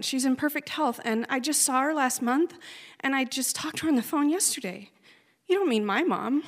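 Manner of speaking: high, loud frantic denial; retelling her stunned protest at the news; disbelieving. Retold or imitated. Disbelief after hearing of death.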